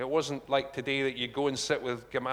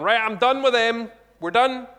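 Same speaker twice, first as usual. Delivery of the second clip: fed-up dismissal; 9 semitones higher, 11 dB louder than usual. Pretend. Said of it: "Jesus is up there going".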